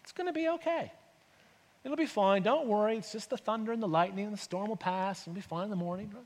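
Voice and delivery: reassuring parent, softening towards the end; calm, easy comfort; non-anxious. Acted. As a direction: soothe a frightened child. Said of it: "being a non-anxious presence".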